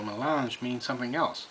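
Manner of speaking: talking around pipe stem; pipe in mouth. Real, not acted. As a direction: lips closed on stem. Seen 1: Pipe held near face first; stem between lips from 1.8s.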